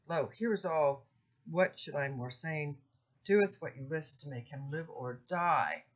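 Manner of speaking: measured Middle English verse reading, slightly dramatic; poem reading. Acted. Lecturer reading Pandarus' plea to the class. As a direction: read the old verse with feeling. Reads Chaucer aloud.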